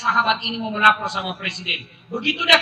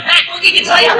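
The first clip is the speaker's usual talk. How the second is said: loud, high startled scolding; hammed-up mother yelping; mock yelp at baby; 4 semitones higher, 4 dB louder than usual. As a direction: yelp as if just bitten.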